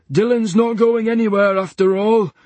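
high and loud; wry nurse. A narrator's reading. Nurse to orderlies, wry and loud. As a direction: say it wryly. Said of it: "snapped Barney".

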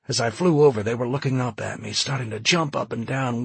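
worked-up eyewitness pilot; distraught pilot recounting horror. Acted. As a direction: relive the flight with rising agitation.

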